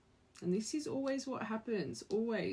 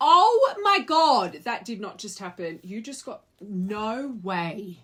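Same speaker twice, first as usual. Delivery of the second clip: shocked laughter; 3 semitones higher, 14 dB louder, slower than usual. Real, not acted. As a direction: gasp in real disbelief. Tarot card shocks reader.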